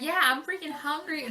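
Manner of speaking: slow it down, mouth wide open; vulgar open-mouthed English. Shown as a demonstration. Showing friend how she talks in English, exaggerated open-mouthed English. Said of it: "I talk like that".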